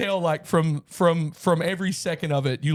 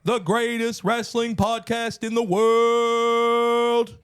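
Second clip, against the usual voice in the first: ringmaster; 4 semitones higher than usual. Pretend. Podcast intro, ringmaster announcement.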